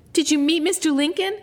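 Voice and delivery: put-on high, eager child voice; eager young girl greeting father; excited Grace. A narrator's reading. Grace calling to Papa, high and eager. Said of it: "she asked".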